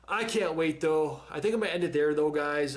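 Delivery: winded, talking between breaths; breathless after an intense episode. Real, not acted. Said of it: "I am out of breath".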